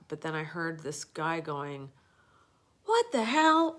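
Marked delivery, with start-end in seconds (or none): 2.8-3.8 mock yell. Man shouting from above.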